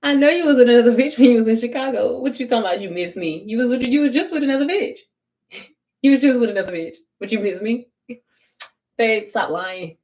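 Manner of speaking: fast, laughing callout; mocking callout. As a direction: laugh at his lie while exposing it. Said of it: "And I said it just like that".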